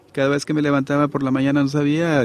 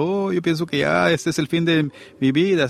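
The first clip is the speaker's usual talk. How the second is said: mock despairing lament; 5 semitones higher than usual.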